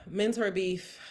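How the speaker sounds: sighing the words through a laugh; teary laugh. Real, not acted. Podcaster still emotional introduces next segment, teary laugh. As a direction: try to announce it but laugh it out. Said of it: "I don't know why that made me so emotional".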